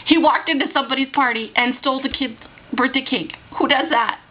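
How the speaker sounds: indignant, rising to a high-pitched exclamation; incredulous outrage. Real, not acted. Outraged at the stolen birthday cake.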